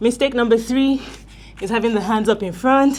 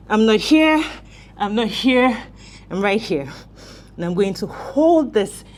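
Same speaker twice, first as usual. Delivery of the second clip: shaky voice. Real, not acted. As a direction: voice trembling under strain. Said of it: "Can you hear my voice shake?".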